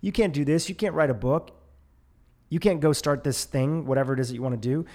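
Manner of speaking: a hint of a fearful nagging voice; nagging inner critic. Podcaster lightly voicing the fearful brain's nagging warnings. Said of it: "tells us".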